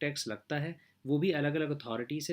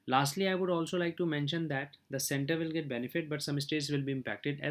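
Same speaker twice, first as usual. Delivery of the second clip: slow formal reading; much slower than usual. Acted. Reads closing English points slowly.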